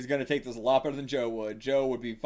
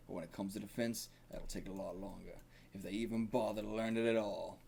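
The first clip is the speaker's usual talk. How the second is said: gravelly; 2 semitones lower, 7 dB quieter than usual. Acted. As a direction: explain quietly with a touch of gravel. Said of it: "it's just gonna be gravelly".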